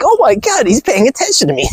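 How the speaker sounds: put-on high, excited ditzy girl voice; mock girly squeal. Mocking a giddy girl getting attention, high squeal. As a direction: gush like a giddy airhead. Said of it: "And I was like".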